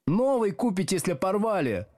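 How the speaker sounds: high-pitched, peeved schoolgirl; grumbling. A narrator's reading. Girl grumbling at teacher about her bag, peeved. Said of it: "пробурчала девица".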